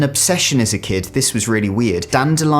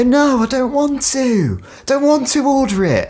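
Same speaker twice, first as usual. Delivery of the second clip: shouting; 14 semitones higher than usual. Retold or imitated. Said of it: "Why are you shouting at me?".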